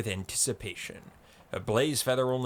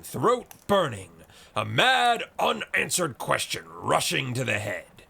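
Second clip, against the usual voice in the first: building, rousing rant with slow stretched words; carried away by his own drinking tale; fiery speech; 3 dB louder than usual. Acted. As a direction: whip the crowd up with it.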